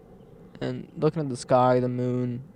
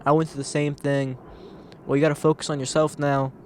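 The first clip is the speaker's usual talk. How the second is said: a louder, upbeat "oh yeah" that settles down; eager friend; 5 dB louder than usual. Retold or imitated. Friend relating to someone venting, loud and eager at first. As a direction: jump in keen to relate. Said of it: "then they're like".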